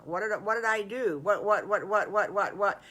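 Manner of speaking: mock-panicked stammer, rapid run of whats; alarmed wolf. Wolf fears he is in trouble, flustered. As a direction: sputter in playful alarm.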